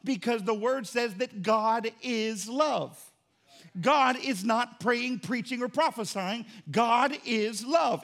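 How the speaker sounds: slow, weighty preaching cadence; slow preaching emphasis. Real, not acted. Pastor driving home that God is love, slow and weighty. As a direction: let each word land.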